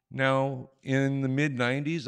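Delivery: usual speaking voice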